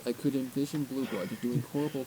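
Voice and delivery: on a roll. A narrator's reading. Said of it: "I was on a roll".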